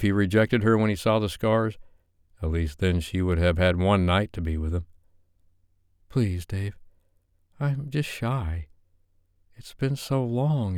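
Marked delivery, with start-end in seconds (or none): 6.1-10.8 put-on higher, flustered young woman's voice, stumbling; a shy woman begging, tripping over her words; nervous Sophie. Flustered Sophie asking Dave to turn off the lights.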